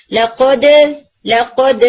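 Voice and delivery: لقد with the jaw opening so the د sounds voweled; لقد with a faulty vowel after the د; wrong qalqala. Shown as a demonstration. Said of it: "عموماً یہ error آ رہا ہوتا ہے".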